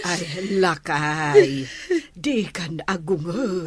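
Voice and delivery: slow, tearful plea to her husband; mother crying to husband to stop scolding. Acted. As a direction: beg him through tears to stop.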